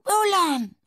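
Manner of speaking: high, loud cry to the dog; emotional call. A narrator's reading. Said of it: "Francois called, his voice muffled by emotion".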